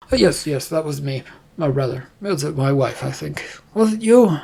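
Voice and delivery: lightly voiced uncertain king; doddering back and forth, lightly played; muddled king.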